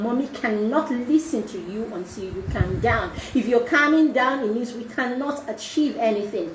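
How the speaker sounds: put-on a soft, firm parent voice coaxing a child to calm down; calm mother soothing child. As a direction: talk the child down gently and firmly. Mother calming a tantrumming child.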